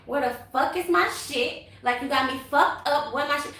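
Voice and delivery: mildly angry retold demand; flashing out, retold. Woman confronting the baby mama about her stuff, mildly angry. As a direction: act out flashing out, only moderately heated. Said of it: "so I'm flashing out".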